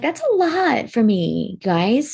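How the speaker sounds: high, loud exasperated outburst; exasperated protest. Retold or imitated. Telling family their moods aren't her job, exasperated. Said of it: "'cause I'm like".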